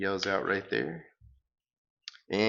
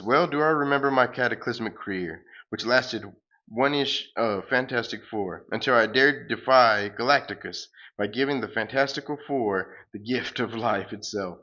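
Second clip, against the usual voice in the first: a lightly voiced grandiose superhero, louder; pompous hero; 4 dB louder than usual. The hero boasting as he flees, lightly pompous hero voice. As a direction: declaim like a self-important comic hero.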